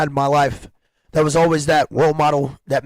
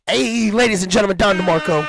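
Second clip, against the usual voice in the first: hype announcer; 4 semitones higher than usual. Acted. Hype announcer introducing guest.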